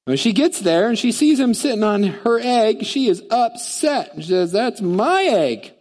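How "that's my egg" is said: slow, high, outraged bird claiming her egg; indignant bird. Acted. Angry bird tells Horton the egg is hers. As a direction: drag it out like a huffy bird.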